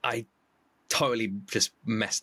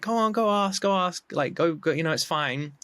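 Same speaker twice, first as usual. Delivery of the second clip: a higher, pushy-but-kind mum voice; encouraging mother; 5 semitones higher than usual. Retold or imitated. Mother urging her scared daughter to go trade, higher voiced. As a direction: nudge a nervous child forward.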